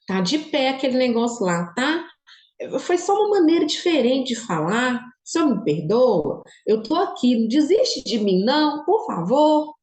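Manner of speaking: pleading prayer. Retold or imitated. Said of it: "eu falei assim".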